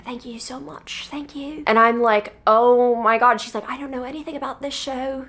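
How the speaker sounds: a clumsy New Zealand accent impression; bad New Zealand accent. Imitating the singer's thanks in a bad New Zealand accent. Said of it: "this is not a good fucking accent".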